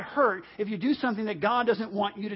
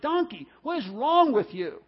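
higher, exasperated demand; mock-annoyed telling-off; ticked-off Balaam; 4 semitones higher than usual. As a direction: scold the donkey, mildly ticked off. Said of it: "He was ticked".

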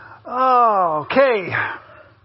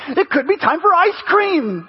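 higher-pitched grandpa offering a treat; mock-excited, indulgent grandpa; delighted grandpa; 4 semitones higher than usual. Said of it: "it becomes a grandfather".

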